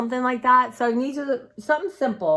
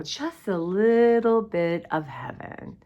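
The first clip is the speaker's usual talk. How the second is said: slow, drawn out Just a little bit of heaven; little stretched out in Just a little bit of heaven; savoring slowly; slower than usual. Shown as a demonstration. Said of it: "just a little bit of heaven in here".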